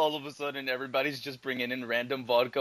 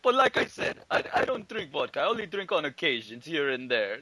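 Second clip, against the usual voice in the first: mock Boris. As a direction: protest too much, like a drunk. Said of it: "he's like".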